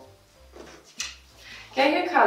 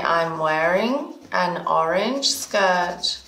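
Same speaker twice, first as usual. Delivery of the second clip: slow model sentence; 3 semitones lower, slower than usual. Shown as a demonstration.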